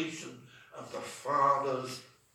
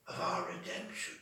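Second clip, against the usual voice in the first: soft whispered repeat of "of our redemption"; whispered echo; 6 dB quieter than usual. Shown as a demonstration. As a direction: breathe the phrase back as a hushed echo. Echo of the same phrase.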